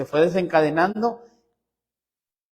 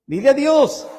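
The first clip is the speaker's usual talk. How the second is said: said again with more force, a bit louder; emphatic repeat; 6 semitones higher, 3 dB louder than usual. Real, not acted. Pastor insists to the congregation, now with more force. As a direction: drive the point home this time. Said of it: "No te enojes conmigo".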